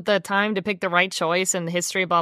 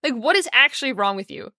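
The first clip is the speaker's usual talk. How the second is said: higher, incredulous with a laugh; mock disgusted brother; 5 semitones higher than usual. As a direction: play the brother recoiling, pitched up. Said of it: "he'd be like".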